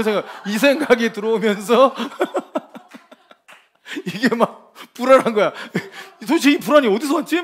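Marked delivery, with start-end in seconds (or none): 2.0-3.1 laughing. Real, not acted. Preacher laughs at own story. 4.1-7.4 laughing. Real, not acted. Laughing through anxious story.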